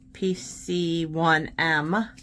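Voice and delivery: "P C one M" said very slowly, letter by letter; slow spelled-out repeat. Shown as a demonstration. Naming the pen again slowly for viewers.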